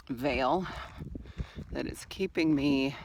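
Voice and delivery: ordinary talk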